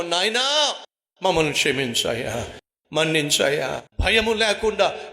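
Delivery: earnest prayer voice over music; closing prayer. Acted. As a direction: pray to the Father, humbly and steadily.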